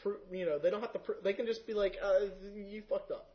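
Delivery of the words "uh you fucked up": laughing mock judge.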